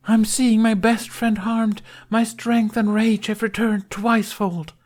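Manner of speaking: high, loud, grand stage proclamation; heroic battle cry. A narrator's reading. Knight rises to avenge a friend, heroic high cry.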